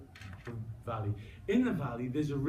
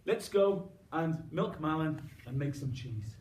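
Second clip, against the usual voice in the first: cheerful call to dog; 3 semitones higher, 5 dB louder than usual. Acted. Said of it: "she said".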